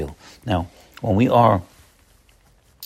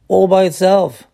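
rising emphasis; 8 semitones higher, 4 dB louder than usual. Real, not acted. Building list of examples.

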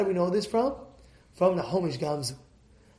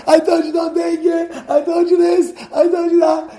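high, loud furious scolding; mother flipping out; 10 semitones higher, 9 dB louder than usual. Retold or imitated. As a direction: yell at the kids like a furious mother. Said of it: "The mother's flipping out".

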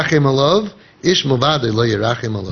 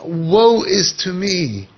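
mock lament; 2 semitones higher than usual. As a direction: groan it to yourself, half-hearted. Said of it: "you're thinking".

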